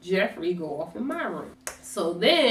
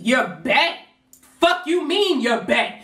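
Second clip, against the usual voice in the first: higher, louder incredulous repeat; outraged disbelief; 6 semitones higher, 4 dB louder than usual. Retold or imitated. To herself, outraged at the rival's text. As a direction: spit the word back in disbelief. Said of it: "Now I go off".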